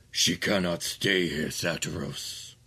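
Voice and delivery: slow, low, final decree; slow, deep demon lord command; cold archduke. Acted. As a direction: shut the argument down. Ramazal overrules.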